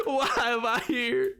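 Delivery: put-on mournful cowboy accent; a hammed-up sorrowful cowboy; sad cowboy. Cowboy lamenting his lot to chat, sad cowboy voice. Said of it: "it's time for sad cowboy".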